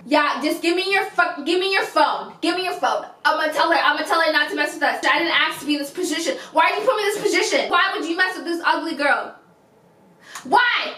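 hammed-up indignant girlfriend; acted angry demands.

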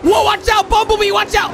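high-pitched urgent call; alarmed warning. Real, not acted. Reactor warns Bumblebee in the animation, alarmed. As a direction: warn them in sudden alarm.

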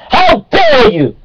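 slow, shrill, very high how dare you; high outraged shriek. Acted. Creationist ranting at laughing evolutionists, high slow outraged shriek.

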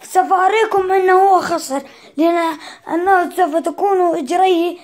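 loud flustered protest; stammering, then loudly arguing the point; exasperated mom scolding. Real, not acted. Protesting that the opponent lost.

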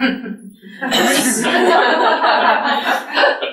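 loud warm laugh breaking out mid-story; a sudden real laugh; real burst of laughter. Real, not acted. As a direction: laugh out at the memory. Laughing at dancing in shoes.

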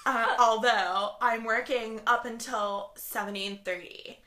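put-on Californian accent, robotic; mock Californian robot read-out. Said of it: "Californian robot".

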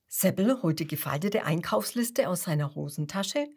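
plain reading voice

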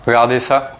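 lightly put-on English accent; a hint of English accent. Shown as a demonstration. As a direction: say it with a French gamer's English accent. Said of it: "ça c'était pour l'accent anglais".

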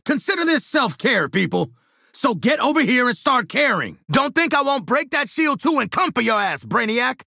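high-pitched battle taunt; combat shout. Acted. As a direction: call it out across the fight.

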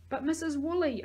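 high-pitched protest; insistent. A narrator's reading. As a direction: try to get an adult's attention. Child trying to get her attention.

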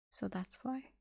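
hushed, as if speaking to no one; whispered. A narrator's reading. She reacts to the news, seemingly addressing no one, whispering. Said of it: "Then she whispered".

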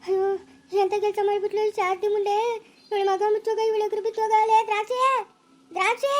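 high wailing curse; high, anguished lamenting; distraught lament. Acted. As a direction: call out the name in distress. Distraught cursing and calling for Drakshi.

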